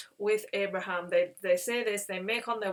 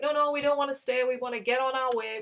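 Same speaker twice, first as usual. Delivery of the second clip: quick, raised protest from retold visitors; hurried polite refusal; 4 semitones higher, 4 dB louder, faster than usual. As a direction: wave off the invitation in a rush. Visitors refusing invitation in retelling.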